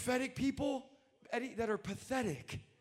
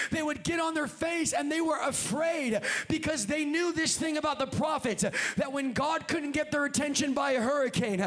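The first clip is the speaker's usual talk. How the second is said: driving preaching; 4 semitones higher, 3 dB louder than usual. Real, not acted. Preaches at full force.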